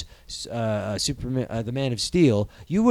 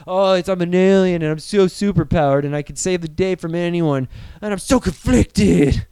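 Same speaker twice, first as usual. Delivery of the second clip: whiny Superman. Retold or imitated.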